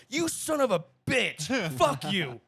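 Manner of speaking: high, loud cursing outburst; re-enacted road rage. Driver cut short mid-song by hard braking, angry outburst.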